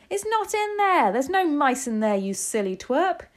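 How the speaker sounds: high, loud retort easing into a jeer; shouting. A narrator's reading. Kitchen staff finding no mouse in trousers, shouting. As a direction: shout down the fool, high at first. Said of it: "they were all shouting".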